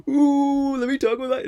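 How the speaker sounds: high, loud mock gesturing voice; mock show-off. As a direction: ham up a silly hand-waver. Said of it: "it's like".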